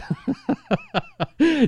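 high breathy laugh; high giggle. Real, not acted. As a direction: burst into a giggle. Laughing at own kids line.

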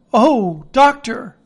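high, loud plea to the doctor; anxious cry. A narrator's reading. Jim and mother crying out to the doctor, high anxious plea. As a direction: call out in relief and alarm. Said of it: "we cried".

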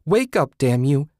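high, loud desperate cries; begging her lifeless friend to wake up; crying out. A narrator's reading. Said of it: "she cried".

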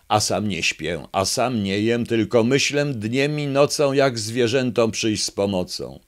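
grand campaign speech, a touch pompous; orating fox. Acted. Fox speaking to the gathered animals, mock-pompous oratory. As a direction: play the sly fox courting voters. Fox's election speech in poem.

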